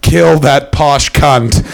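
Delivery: slow, drawn-out mock yell; half-volume shout, words stretched out; retold yell. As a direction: imitate a friend yelling from the crowd. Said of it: "I hear him just yell".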